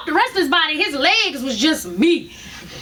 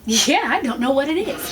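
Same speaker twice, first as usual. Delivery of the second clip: mimicking doctor; 4 semitones lower than usual. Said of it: "that's how he's talking".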